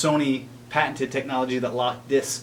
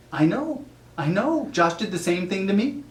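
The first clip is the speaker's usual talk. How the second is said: mock sympathy; 7 semitones higher than usual. Pretend call, high sympathy.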